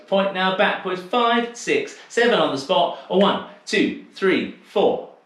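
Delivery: rhythmic counting of steps, stretched words; dance step calling. Acted. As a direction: call each step on the beat like a dance teacher. Teacher calls dance steps.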